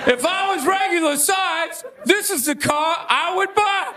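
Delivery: high mock car-ad pitch; hammed-up commercial spokesman; Shaquille O'Neal. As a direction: lightly imitate a celebrity endorsing a car. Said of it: "when he was selling Buicks".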